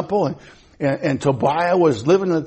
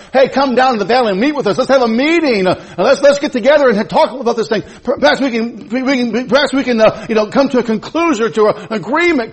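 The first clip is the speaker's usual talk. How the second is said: higher, coaxing schemers luring him down; coaxing enemies; 7 semitones higher, 3 dB louder than usual. Acted. Enemies coax Nehemiah down to the valley, mock-friendly. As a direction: sweet-talk him down with a grin.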